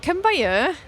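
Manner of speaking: put-on lilting South Welsh accent, swooping up in pitch; South Welsh grandmother. Grandmother calling to Sarah, broad South Welsh accent. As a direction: do a South Wales gran calling someone over. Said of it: "My grandmother was from South Wales".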